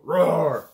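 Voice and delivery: short, loud spoken roar; dinosaur roar. Shown as a demonstration. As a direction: give a brief, loud roar. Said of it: "roar like a dinosaur".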